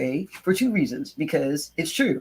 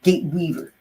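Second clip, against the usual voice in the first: "Gate weaver" with the weight on "weaver"; "Gate weaver", stressing the better word; corrective stress; 3 semitones higher than usual. Real, not acted. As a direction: correct yourself by leaning on "weaver". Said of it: "not even gate builder".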